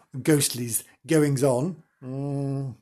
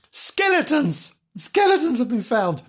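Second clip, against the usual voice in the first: mock-dramatic skeletons; dramatic reveal; 8 semitones higher than usual. Real, not acted. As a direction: hang on the word for effect.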